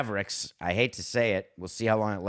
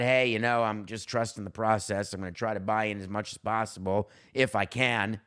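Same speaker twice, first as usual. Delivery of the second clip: mocking Zion; 2 semitones lower than usual. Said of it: "talk about".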